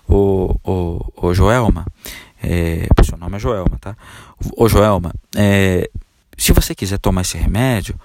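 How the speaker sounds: hesitant, apologetic doctor voice; meek doctor. Retold or imitated. Doctor timidly asking the patient Joelma, mild pleading. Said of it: "Ele fala assim com você".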